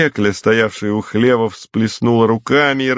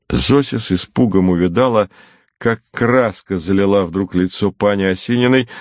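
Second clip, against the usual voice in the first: ordinary delivery, nothing marked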